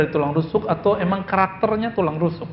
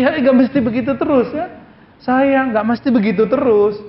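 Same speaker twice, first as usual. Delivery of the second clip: mildly mock sweet; 4 semitones higher than usual. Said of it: "dibuat-buat".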